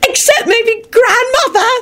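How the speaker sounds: high, slow theatrical squeal; dramatic punchline. A narrator's reading. Rosie teasing the whole table, dramatic. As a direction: draw it out for effect. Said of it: "She paused for dramatic effect".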